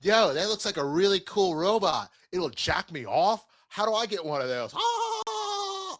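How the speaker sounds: laid-back surfer dude ending in a shriek; white surfer man voice. Acted. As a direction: do a dopey surfer bro. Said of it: "a white surfer man voice".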